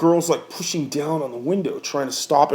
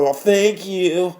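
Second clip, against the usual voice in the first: sarcastic thanks; 5 semitones higher, 3 dB louder, much slower than usual. Retold or imitated. Sarcastic thanks after they leave.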